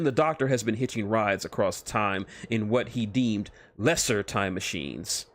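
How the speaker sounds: normal talking voice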